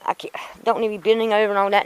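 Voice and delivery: griping fast about all the hassle; frustrated. Real, not acted. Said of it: "I'm just frustrated".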